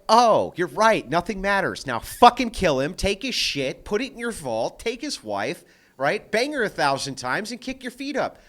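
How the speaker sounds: loud, gleeful mock of a convert egging on a killing; a man mocking a nihilist crowd, loud and gleeful; mock nihilist rant. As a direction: bellow it like a cheerful thug. Acting out nihilist followers.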